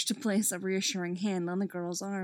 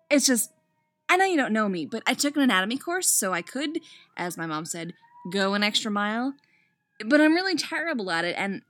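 nervous student; 4 dB louder than usual. Acted. Nervous student voiced by narrator.

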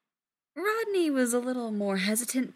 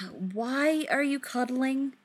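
bewildered; 5 semitones higher, slower than usual. Acted. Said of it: "complete bewilderment in his own voice".

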